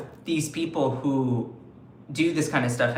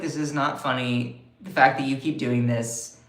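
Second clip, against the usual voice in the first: voicing Canada; 3 semitones lower than usual. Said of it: "Canada is like".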